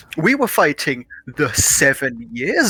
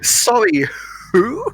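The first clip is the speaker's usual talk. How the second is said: high-pitched, hammed-up complaint and snub; mock historical figures; 13 semitones higher than usual. Mocking colonists asking for Parliament seats, high hammed-up voices. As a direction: play both sides in a silly high voice.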